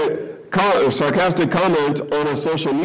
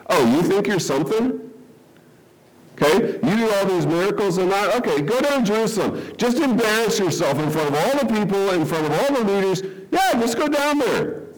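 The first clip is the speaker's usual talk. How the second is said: sneering, higher sarcastic taunt; mocking ridicule; 4 semitones higher than usual. Brothers taunting Jesus to embarrass himself, higher mock sneer. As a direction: needle him like a scornful brother. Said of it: "Okay, it's ridicule".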